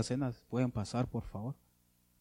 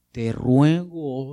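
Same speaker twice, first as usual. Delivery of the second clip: slow, louder drawn-out plea; pleading prayer; 6 dB louder, much slower than usual. Shown as a demonstration. Preacher voicing Hezekiah's prayer, slow loud pleading. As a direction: stretch out the plea as a begging king. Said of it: "¿cómo empezó Ezequías su oración?".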